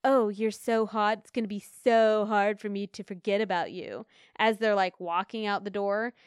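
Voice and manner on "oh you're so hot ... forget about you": mock Tinder guy. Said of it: "these Tinder guys do where they're like".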